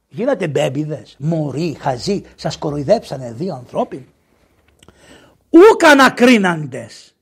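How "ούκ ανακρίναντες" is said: loud, raised, drawn-out scripture quote; declaimed rebuke. Acted. Prophet accuses the crowd of not questioning, loud declamation. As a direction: proclaim it slowly as an accusation.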